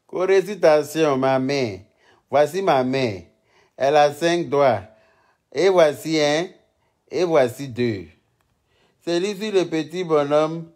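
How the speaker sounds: lightly voiced child reciting a nursery rhyme; imitating little girl reciting. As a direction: schoolgirl reciting her finger rhyme, lightly done. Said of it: "une petite fille qui m'a fait tellement rire".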